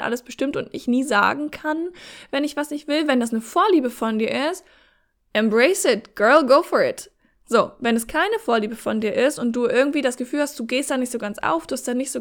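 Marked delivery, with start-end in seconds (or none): 5.3-7.1 put-on cheering girlfriend. Switches to cheering English aside.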